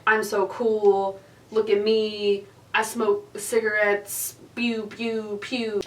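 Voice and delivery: slow, mock-cool bragging; mock hard-ass. Teller mocking the boy who pretended to be tough, hard-ass swagger. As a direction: drag it out like a kid posing as tough. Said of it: "pretending to be such, like, a hard ass".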